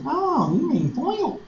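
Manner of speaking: high, drawn-out nasal mimicry; mocking nasal Pennsylvanian. Student correcting her Southern teacher, mocking high nasal voice. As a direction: imitate her up in the nose, slowly. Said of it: "doing something in her nose".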